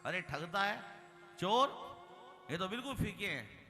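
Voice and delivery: indignant accusation, peaking on चोर; angry customer. Acted. Cheated customer confronting the melon seller, acted indignation. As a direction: accuse the seller with mock outrage. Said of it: "बड़ा नाराज हुआ".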